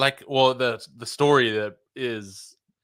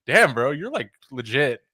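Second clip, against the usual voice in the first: amused disbelief; 3 semitones higher than usual. Retold or imitated. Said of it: "and I'm like".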